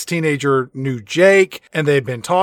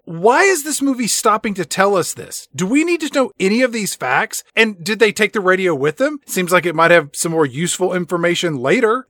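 incredulous; 3 semitones higher than usual. Retold or imitated. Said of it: "And I'm like".

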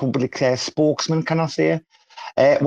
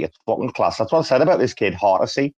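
normal talking voice

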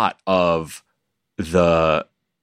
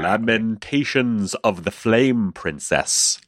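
radio voice; 3 semitones higher, slower than usual. Shown as a demonstration. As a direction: boom it like a radio host. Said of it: "Radio voice".

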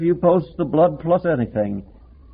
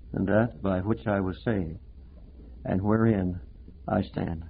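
much softer, lower, sincere testimony; believer's quiet resolve; 7 semitones lower, 9 dB quieter than usual. Retold or imitated. Preacher voices a believer's quiet testimony, much softer and lower. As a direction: say it quietly as a settled conviction. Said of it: "You say".

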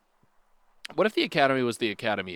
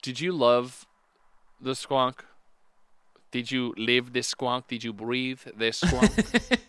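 slow hushed questioning; slower than usual. Pretend. Slow intimate mock questioning.

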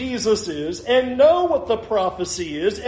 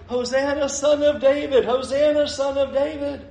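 higher-pitched chant at ordinary volume; mock children's shouting; 5 semitones higher than usual. Children hailing Jesus in the temple, lightly mimicked shouting. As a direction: imitate children calling out, without a full shout. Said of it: "Here's the children all shouting".

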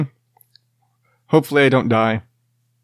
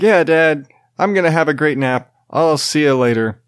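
imitating his son; 3 semitones higher than usual. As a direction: chirp it like a happy four-year-old. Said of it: "'Cause he talks just like that".

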